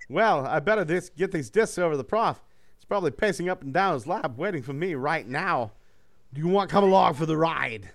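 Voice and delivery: a cocky robot shrugging off the cost; breezy Hot Rod. Acted. Hot Rod explaining to the hero why he shipped himself, breezy.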